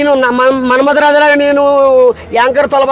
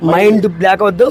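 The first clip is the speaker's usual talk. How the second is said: Mahesh Babu dialogue; 4 semitones lower than usual. Acted. Guest does a star's famous punch dialogue, low and cool. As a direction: drop it low and cool like a star. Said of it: "Mahesh Babu".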